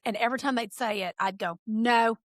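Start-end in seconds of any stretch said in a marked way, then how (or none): 1.7-2.2 firm retold refusal; a child's decisive no, lightly imitated; definitive child. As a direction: state it definitively. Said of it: "real definitively as a child".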